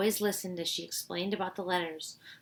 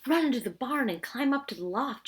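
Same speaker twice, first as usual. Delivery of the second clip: yelled; 6 semitones higher, 4 dB louder than usual. Acted. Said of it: "Josh yelled".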